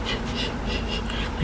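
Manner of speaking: whispered shh; hushing someone urgently; shushing. Retold or imitated. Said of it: "comes out of the kitchen, like".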